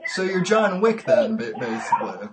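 laughing through the words; real chuckle under the question; amused. Real, not acted. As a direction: tease the caller through a laugh. Host amused by caller's story.

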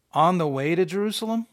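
mildly disbelieving echo of a title; incredulous question. Shown as a demonstration. Preacher doubting the subheading's significance, mildly incredulous. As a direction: question the heading as if unimpressed.

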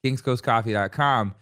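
ad read in a put-on Long Island accent. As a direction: sell coffee like a Long Island local. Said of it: "Long Island accent".

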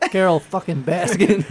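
slow, high, drawn-out mock Southern accent; hammed-up Southern sneer; mock accent insult. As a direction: stretch the name out in a sneering Southern drawl.

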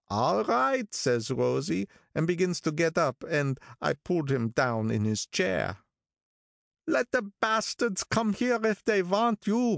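put-on old gangster storyteller. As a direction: tell it like a mournful old racketeer. Narrator voicing Wolfsheim's long story.

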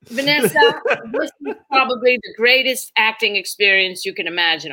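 talking through laughter as her dad; amused father laughing at her plight. Retold or imitated. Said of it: "he couldn't stop laughing".

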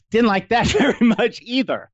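chuckling at your own misfortune; amused laughing. Real, not acted. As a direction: let a laugh break into the admission. Laughs while recalling disliked job.

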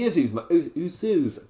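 posh slip on USOS; accidentally posh. Real, not acted. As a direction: say USOS with an unintended posh accent. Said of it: "I went posh there".

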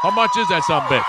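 high, loud shrill question; squeaky outburst. Pretend. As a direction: shriek it out.

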